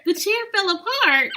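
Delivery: high, loud incredulous protest; loud disbelief. Real, not acted. Protesting the friend's story about the chair, loud disbelief. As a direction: deny it loudly, astonished.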